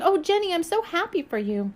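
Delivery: high, gushing delight; excited. Acted. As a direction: burst out in happy excitement. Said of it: "she was so excited for her".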